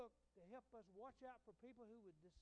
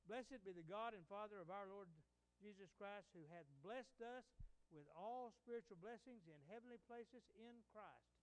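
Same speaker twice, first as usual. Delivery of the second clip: scripture reading; 4 dB louder than usual. Real, not acted. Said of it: "what Scripture says".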